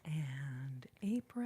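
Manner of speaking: low, slow drawn-out April; whispered And April, dragged and low; odd drawn-out April. Real, not acted. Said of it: "I don't know why I said it like that".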